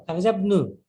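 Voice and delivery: খারাজা ইবনু run together as "kharajabnu"; linking hamza unpronounced. Shown as a demonstration. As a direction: drop the i of ইবনু after খারাজা. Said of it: "কিন্তু খারাজা ইবনু কেন বললাম?".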